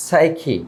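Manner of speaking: সাইকি said as "saiki" with no p; teacher's model সাইকি, no p sound; silent p. Shown as a demonstration. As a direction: begin সাইকি on a clean s. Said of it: "এখানে পি এর উচ্চারণ হবে না".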